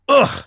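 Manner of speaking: high sharp grunt of impact; pained grunt. Acted. Nightwing hit and knocked off the train, pained grunt. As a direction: grunt as if struck.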